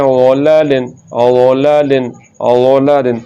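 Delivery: ओलालिन with ला unstretched; short vowel. Shown as a demonstration. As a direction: keep the a in ओलालिन brief. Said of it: "बगैर लंबा किए".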